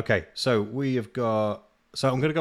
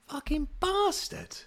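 bitter curse; 3 dB quieter, slower than usual. Real, not acted. Muttered insult at the guy.

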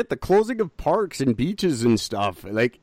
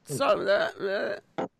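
stammering lady; 11 semitones higher, 3 dB quieter, slower than usual. Retold or imitated.

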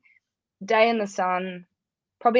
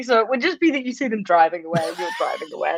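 laughing; 2 semitones higher than usual. Real, not acted. Laughing while extending the joke.

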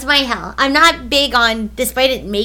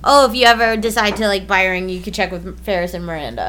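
casual aside, sinking lower as it goes; offhand suggestion; 5 semitones lower than usual. Shown as a demonstration. Girlfriend correcting how she was quoted, offhand suggestion. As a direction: toss it out as a low, no-pressure suggestion. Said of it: "I think I said it more like".

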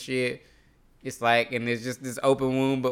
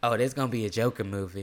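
lightly put-on Southern Belle accent; a hint of Southern Belle in imitating mom; Southern Belle twang; 3 dB quieter, faster than usual. Son quoting his mom's movie prediction, light Southern Belle twang. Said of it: "adding a Southern Belle twang to my mom's voice".

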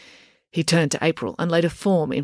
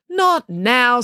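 sharp, louder, higher snap; snapped; 7 semitones higher, 5 dB louder than usual. A narrator's reading. Mister Lang to someone knocking at the door, snapping. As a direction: cut the visitor off curtly. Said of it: "snapped Mister Lang".

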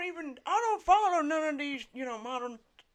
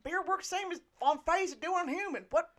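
put-on gruff old bartender, lips over teeth; grumbling toothless old barkeep; old man voice; 4 dB louder, faster than usual. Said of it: "It's my old man voice".

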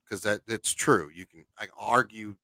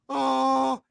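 higher, hammed-up lofty God voice; mock God voice; 5 semitones higher, slower than usual. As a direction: play a grand God brushing the idea off.

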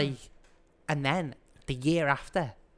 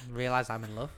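monologued song verse; 2 semitones lower, 4 dB quieter than usual. Acted. Podcaster quoting the song with a singer, monologued verse. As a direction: recite the verse as a monologue, line by line. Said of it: "just monologued the verse".

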